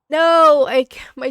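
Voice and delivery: sudden loud cry of frustration as the sneeze slips away; frustrated no. Real, not acted. Gamer losing a sneeze mid-cleaning cries out loudly. Sneeze fades before it comes.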